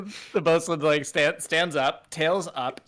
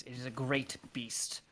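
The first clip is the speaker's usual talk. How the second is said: whisper; 3 semitones lower, 10 dB quieter, slower than usual. Acted. Ominous warning in-character.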